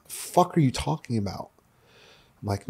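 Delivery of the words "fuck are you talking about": higher, softer mock incredulity; retold disbelief. Mia reacting to the Colombia plan, mock disbelief. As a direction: imitate a baffled, exasperated partner.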